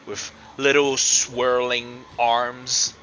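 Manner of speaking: slow, deliberate monster reveal; game master's scene setting. Acted. Game master unveils an abomination to the players, suspenseful narration. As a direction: describe it slowly, phrase by phrase, with pauses.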